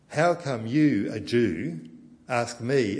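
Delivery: she throws the question back at him, loud; indignant challenge. Acted. Preacher acting the Samaritan woman confronting Jesus, indignant and loud.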